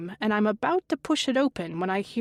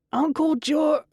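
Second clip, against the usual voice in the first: higher, louder cut-off yell; shouting; 7 semitones higher, 5 dB louder than usual. Acted. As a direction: yell it until you're cut off.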